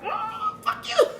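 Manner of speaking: high, laughing mock "fuck you"; cheeky laughing comeback; laughing retort. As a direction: shout it back through a laugh. Reacting to her own message.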